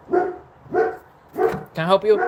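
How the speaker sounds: slow high sing-song pet voice. Real, not acted. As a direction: coo at the dog slowly. Talking to dog in baby voice.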